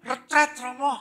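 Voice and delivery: put-on high-pitched, loud child's answer; schoolchild. Boy tells priest where he's going, high child voice. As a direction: answer like an eager little pupil. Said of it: "Saya ketemu anak S D".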